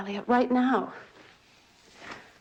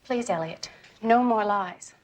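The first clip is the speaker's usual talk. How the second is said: pleading; 9 semitones higher, slower than usual. Acted. Wife pleading with husband.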